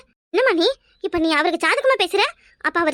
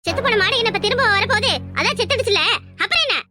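dismissive taunt; 3 semitones higher than usual. Acted. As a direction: brush it off with contempt. (இழிவாக அலட்சியமாகக் கேட்பது)

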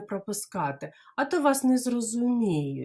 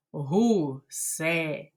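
slow Гусенята again; teacher models slow Гусенята; slowly; 4 semitones lower, slower than usual. Shown as a demonstration. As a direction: draw out Гусенята gently. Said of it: "Давайте повільно".

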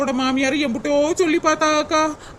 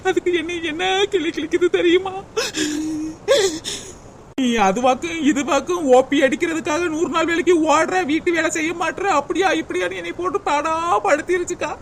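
higher-pitched, crying grievance; tearful complaint; 3 semitones higher than usual. Acted. Daughter-in-law telling the women about her mother-in-law's scolding, tearful. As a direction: complain through tears, voice lifted. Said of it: "அழுகாதடி சின்ன பொண்ணு".

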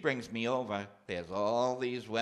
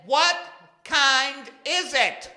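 much higher, loud, slow yell; shouting to deaf aunt; 10 dB louder, slower than usual. Retold or imitated. Nephew finally yelling the question at a deaf aunt, high and slow. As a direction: bellow each word slowly. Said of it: "I said".

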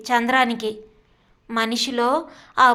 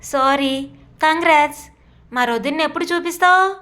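bright excited congratulations, higher; eager, higher-pitched joy; happily; 3 semitones higher than usual. Acted. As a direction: gush with delight at the news. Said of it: "Indira సంతోషంగా".

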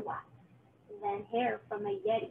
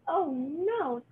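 louder, higher dismayed witch; screech; 4 semitones higher, 5 dB louder than usual. Acted. Witch seeing the kind pumpkin, screeching in dismay. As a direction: shriek it in horror. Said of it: "screeched the witch".

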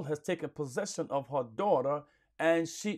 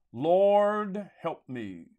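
retold plea; 2 semitones higher, 3 dB louder, much slower than usual. Preacher voicing the woman's cry to Jesus, retold plea. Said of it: "She's crying out".

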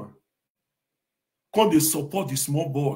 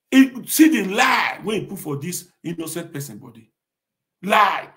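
angry accusation; 2 semitones higher, 6 dB louder than usual. Real, not acted.

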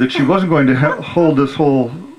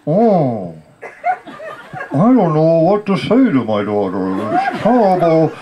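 defeated father; 5 semitones higher than usual. Retold or imitated. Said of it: "he's like".

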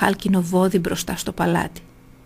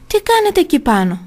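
higher, louder startled cry; alarmed shout; 10 semitones higher, 4 dB louder than usual. A narrator's reading. Phalaris shut inside the bull, shouting up in alarm. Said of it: "φώναξε ο Φάλαρης".

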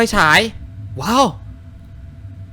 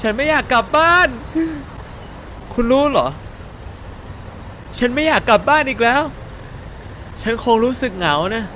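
put-on high, sad girl voice; sing-song lonely young girl; girl character voice; 8 semitones higher than usual. Streamer voicing the lost girl who won't go home, high and sad.

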